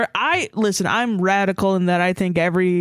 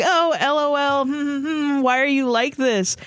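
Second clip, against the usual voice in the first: higher, sing-song mock of a smug commenter; 7 semitones higher than usual. Mocking the friend who always replies, in a high teasing voice. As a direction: sneer it like an annoying friend.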